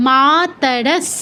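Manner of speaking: মাতরস very slow, ending in a hissed dental s; dental s demo. Shown as a demonstration. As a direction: stretch মাতরস, tongue at the teeth for s. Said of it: "দন্ত স আছে". (মাতরস টেনে, শেষে দন্ত্য স)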